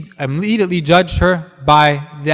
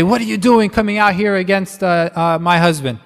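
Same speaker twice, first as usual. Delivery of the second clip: mock yell; 4 semitones higher than usual. Wife confronting David over her husband, mock yelling. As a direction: put on an indignant wife's telling-off. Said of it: "did she yell at him".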